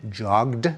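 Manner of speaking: JOGGED with a voiced final d; "jogged" pronounced "jogd"; ending like d. Shown as a demonstration. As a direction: let the ed in "jogged" land as a d. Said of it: "we pronounce it as a D".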